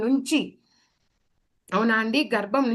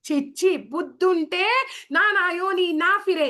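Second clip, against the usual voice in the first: put-on pleading baby voice; 6 semitones higher than usual. Baby's promise to Krishna.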